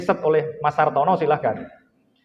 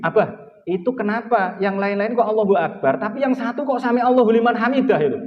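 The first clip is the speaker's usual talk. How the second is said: lightly voiced curious child, a bit higher and quicker; a hint of a small child asking Dad; child's question; 5 semitones higher than usual. Teacher retelling his young son's question to the congregation, lightly voiced child. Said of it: "Anak saya nanya begini".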